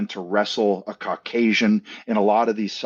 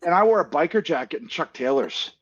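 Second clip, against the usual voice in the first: high, hammed-up get-off-my-lawn rant; mock grumpy old-timer; 8 semitones higher than usual. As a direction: play the crusty elder bragging about hardship. Mock rant about hard childhood.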